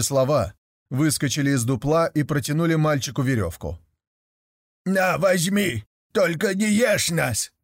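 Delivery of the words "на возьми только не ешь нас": begging devils. A narrator's reading.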